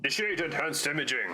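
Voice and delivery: lightly voiced mech computer announcement; mech voice impersonation. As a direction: imitate the game's war horn voice a little. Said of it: "my best impersonation of that one".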